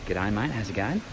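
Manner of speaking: hammed-up Australian "G'day, mate, how's it going?" with a rising end; better Aussie accent. Shown as a demonstration. Retrying the greeting for the camera, a mock Australian accent. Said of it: "That's better, right?".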